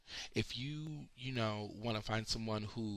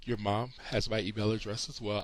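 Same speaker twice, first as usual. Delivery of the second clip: yawning; 4 dB louder than usual. Real, not acted. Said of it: "I am so sorry for yawning".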